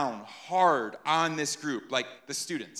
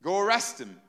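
upset Pharisees. Retold or imitated. Pharisees scolding the officers, mildly mock upset. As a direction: scold the officers for coming back empty-handed. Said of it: "They're upset".

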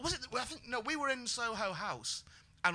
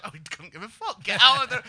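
shouted order; 3 semitones higher, 12 dB louder than usual. Retold or imitated. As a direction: yell get out. Retold bouncer ordering them out.

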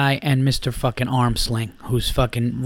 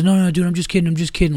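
quick-to-retreat imitation, pitched up; mock backpedaling; 5 semitones higher, much faster than usual. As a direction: imitate someone hastily bailing out. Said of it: "he was, like, bailing out of it".

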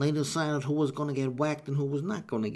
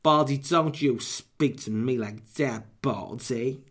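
mafioso wife; slower than usual. Acted. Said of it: "sound like a mafioso wife".

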